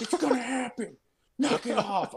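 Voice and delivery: high-pitched mock scold from mom; imitating angry mom. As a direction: play mom telling him to stop. Mom scolding him at night.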